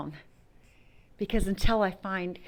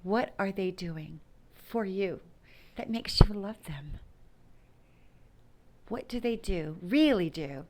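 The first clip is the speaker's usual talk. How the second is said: lightly voiced grandmother asking, half whispered; a hint of a wise grandmother probing gently; grandmother Marcella. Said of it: "what my grandmother Marcella asked".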